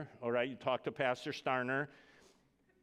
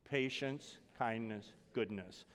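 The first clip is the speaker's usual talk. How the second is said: call and response; 2 semitones lower, 3 dB quieter, slower than usual. Shown as a demonstration. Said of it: "Say that with me".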